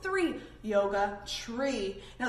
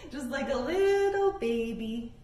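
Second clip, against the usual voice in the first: laughing. Real, not acted. Laughing after baby cries.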